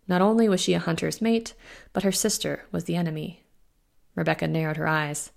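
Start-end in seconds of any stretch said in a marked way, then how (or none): none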